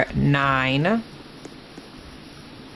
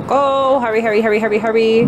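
being chased; 4 semitones higher, 4 dB louder than usual. Real, not acted. Mimic chasing, rushing.

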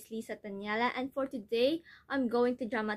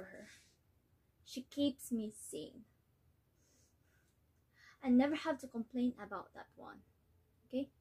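tragic heroine sorrow; 2 semitones higher than usual. Acted. Nella gives up, praises other daughter.

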